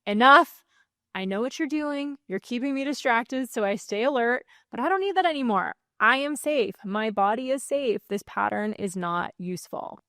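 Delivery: command, then calm it down; firm parent settling a tantrum; firm then reassuring. Shown as a demonstration. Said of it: "follow it up with some reassurance".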